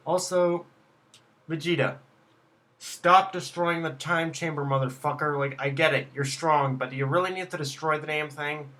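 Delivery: loud, exasperated telling-off; mock scolding. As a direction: tell off a reckless friend loudly, half joking. Scolds Vegeta as if present.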